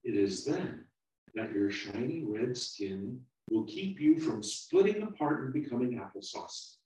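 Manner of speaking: calm the frightened little one down; soothing. Acted.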